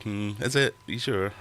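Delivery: mock-doubting the brands; doubtful. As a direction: raise an eyebrow at the claim. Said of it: "And you're like".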